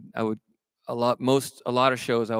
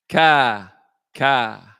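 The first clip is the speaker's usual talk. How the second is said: crow caw; 7 dB louder than usual. Retold or imitated. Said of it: "the punchline to one of 'em".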